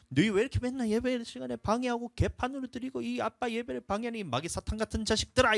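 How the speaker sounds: mock scolding dad. Pastor mimicking a dad calling his kids devils, angry. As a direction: berate the kids like an exasperated father.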